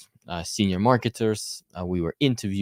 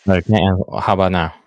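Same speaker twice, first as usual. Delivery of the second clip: crackly voice; 8 dB louder than usual. Real, not acted. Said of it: "climbing down my eardrums".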